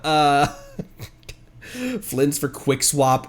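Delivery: giggling slowly through the team plan; can't stop laughing while explaining; laughing through words. Real, not acted. Streamer laughing at his own team idea, giggling.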